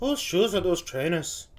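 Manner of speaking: imitation Welsh, rising question; Welsh accent attempt. Viewer copying the comedian, in an attempted Welsh accent. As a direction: have a go at confused Welsh. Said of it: "To do a good Welsh accent".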